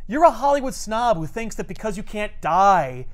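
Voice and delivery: contemptuous Hulk. Retold or imitated. Hulk berating Wonder Man as a fraud, scornful. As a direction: tear into him with contempt.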